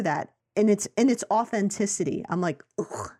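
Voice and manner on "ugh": low, quiet "ugh"; disgusted groan. Retold or imitated. Voicing disgust at home accent.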